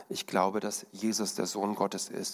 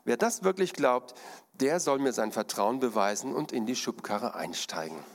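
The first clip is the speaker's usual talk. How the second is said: artist's challenge. Acted. Artist dares the crowd to climb into the wheelbarrow. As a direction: dare the crowd to prove it. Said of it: "sagte der Artist".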